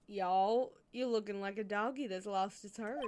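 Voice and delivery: attempted southern cowboy accent. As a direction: put on a folksy southern accent. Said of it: "southern accent".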